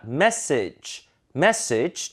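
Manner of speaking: message as "MESS-ij", falling; weakened second vowel. Shown as a demonstration. Teacher modelling, message with weak second syllable. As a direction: stress MESS in message, reduce the rest. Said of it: "음가만 약화시켜도".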